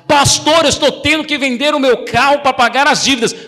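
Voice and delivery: a hint of a distressed member; worried church member. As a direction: play the anxious believer.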